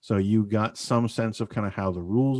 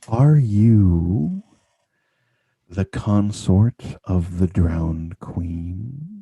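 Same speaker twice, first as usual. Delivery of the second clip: hushed whisper; 2 semitones lower, 7 dB louder than usual. Voicing a figure who whispers a question to a player: whispering figure. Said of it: "the figure kind of whispers into you".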